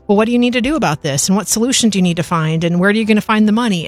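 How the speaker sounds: rapid-fire coach questions, imitated; coach's questioning. Coach asking a struggling woman in class for solutions, brisk questioning. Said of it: "coach was just asking".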